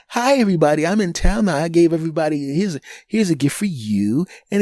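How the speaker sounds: high sing-song fake-sweet arrival voice; mock sister greeting. Imitating the arriving sister, high and sugary. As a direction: mimic her chirpy hello with gifts.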